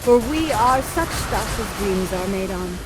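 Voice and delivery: measured, reflective reading of the closing speech; Shakespeare recitation. Shown as a demonstration. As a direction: let each image land with pauses. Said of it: "end the play with Shakespeare's beautiful words".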